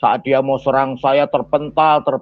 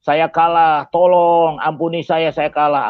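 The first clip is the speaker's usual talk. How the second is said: mock plea for mercy, slightly raised voice; acted pleading; 2 semitones higher, slower than usual. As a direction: imitate a beaten man begging, lightly pressed. Acted begging of beaten opponent. (menirukan orang memohon ampun)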